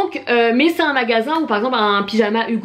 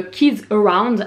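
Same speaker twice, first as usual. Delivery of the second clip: French-accented English; much slower than usual. Real, not acted. Vlogger names her favourite shop in a French accent. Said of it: "pardonnez mon accent anglais".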